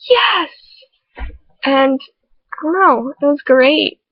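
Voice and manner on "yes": high cheering yes; excited yes. Retold or imitated. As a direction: cheer for a friend. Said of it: "She was like".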